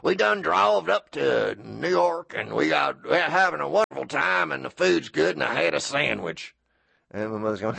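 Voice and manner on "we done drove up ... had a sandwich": grandfather's booming voice. Retold or imitated. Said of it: "with his loud booming voice and says".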